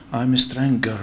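"stranger" said with a hard G, strang-ger; overcorrected pronunciation. Retold or imitated. Embarrassed student apologizing to the lady, "stranger" with a hard G. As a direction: say "stranger" to rhyme with hanger. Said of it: "He thought every G E R is".

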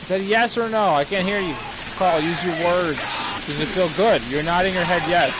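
patronizing high coo, pestering the robot; mock baby talk. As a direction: talk down to him like a toddler. Teasing the robot Carl in-game.

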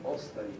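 "Ostavi" with stress on the opening O, falling away; first-syllable stress. Shown as a demonstration. Lecturer correcting the accent of a command, "Ostavi" stressed on O. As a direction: hit the O of "Ostavi", then drop off. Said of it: "with stress on that first syllable".

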